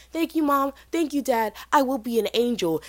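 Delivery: high, mock-innocent girl voice; angelic daughter. Freshman reassuring her parents, high mock-innocent voice. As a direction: promise sweetly like a perfect daughter. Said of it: "And she was like".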